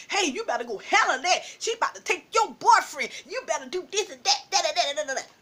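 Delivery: egging her on, quick and animated; hurried chatter of friends stirring trouble, imitated; instigating. Friends push her to confront boyfriend, imitated instigating. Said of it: "you know, instigating".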